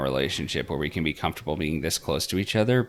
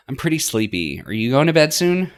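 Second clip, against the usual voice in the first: Marina's voice; 9 semitones higher, 8 dB louder than usual. Acted. Marina speaking, voiced higher.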